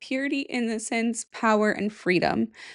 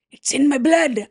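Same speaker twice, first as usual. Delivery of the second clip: a hint of a Scottish accent, a bit louder; lightly voiced Scottish lilt on the line; 3 semitones higher, 6 dB louder than usual. A hint of Scottish accent, claiming her Scottish blood. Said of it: "Is that a Scottish accent? / Was supposed to be".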